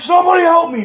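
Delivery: high-pitched mock wail; imitating a helpless man pleading; cry for help. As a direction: call out high and desperate, hammed-up. Fallen man cries again.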